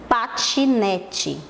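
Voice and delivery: "Patinete" very slowly, split into pa-ti-ne-te; drawn-out, teacherly breakdown of "Patinete"; syllable by syllable. Shown as a demonstration. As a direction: sound out all four syllables of "Patinete". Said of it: "ele tem quatro sílabas".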